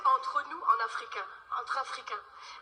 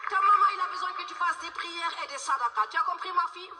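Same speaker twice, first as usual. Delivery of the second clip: put-on Senegalese-accented motherly advice; Senegalese auntie; 3 semitones higher than usual. Senegalese auntie telling the girl to pray, in a Senegalese accent. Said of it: "Tata Manguette".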